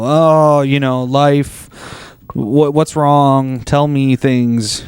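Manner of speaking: slow, drawn-out coaxing; lightly played patient parent, taking it slowly; mock gentle dad. Modern dad coaxing a crying kid to talk, slow gentle manner.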